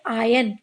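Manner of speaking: आयन said with no r sound, like "aa-yan"; silent r in iron. Shown as a demonstration. Teacher showing pupils the right way: आयन without r. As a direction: drop the r: आयन. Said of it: "यहाँ पर आर silent होता है".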